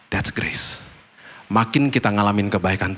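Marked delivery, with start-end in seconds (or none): 0.1-0.8 hushed emphasis. Real, not acted. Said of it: "sermon point".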